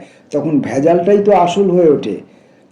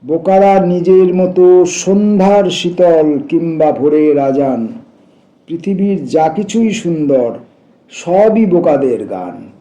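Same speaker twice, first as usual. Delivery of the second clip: measured, raised poem-reading voice; poetry recitation. Acted. Reader sharing a poem about foolish birds, recitation. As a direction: recite in sustained, shaped phrases.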